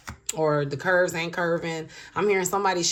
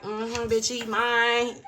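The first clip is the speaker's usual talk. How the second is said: possessive boast; 4 semitones higher than usual. Retold or imitated. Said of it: "at first she was like".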